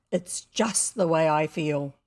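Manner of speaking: hint at deep secret feeling; mysterious. A narrator's reading. Boy explaining himself to girl, mysteriously. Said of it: "said William mysteriously".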